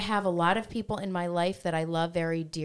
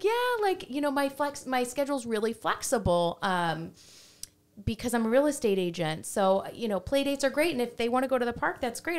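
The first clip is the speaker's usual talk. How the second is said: the other mom; 6 semitones higher than usual. Retold or imitated. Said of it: "she's like".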